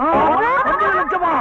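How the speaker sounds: stunned by a sudden fortune; astonished. Acted. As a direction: gasp at the huge sum. Astonished at news of inheritance.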